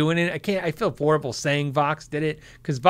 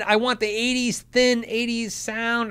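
"thin" drawn out long and higher; stress on thin; 5 semitones higher, slower than usual. Shown as a demonstration. Showing viewers the sound he means, dwelling on "thin". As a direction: lean slowly on "thin eighties sound". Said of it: "I don't wanna say thin".

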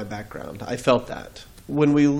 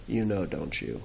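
kindly; 5 semitones lower, 7 dB quieter than usual. Retold or imitated. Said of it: "looked at me very kindly and said".

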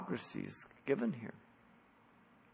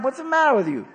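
mock angry father; 10 semitones higher, 8 dB louder than usual. Father scolds wheedling son.

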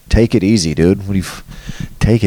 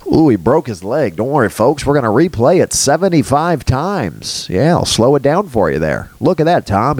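mock sportscaster; 3 semitones higher than usual. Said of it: "showing replays".

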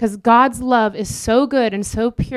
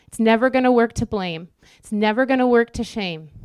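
preaching refrain. Real, not acted.

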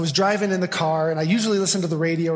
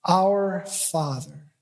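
awed, overwhelmed prayer; much slower than usual. Retold or imitated. Preacher reliving being overwhelmed by God in the car, slow and hushed. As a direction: let the words stop you, slow and hushed. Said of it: "I didn't get any farther than that".

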